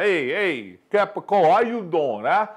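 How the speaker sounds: lightly put-on Brooklyn Italian greeting; a playful hint of a Brooklyn Italian guy calling out; New York Italian. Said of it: "So New York, Italian, Brooklyn".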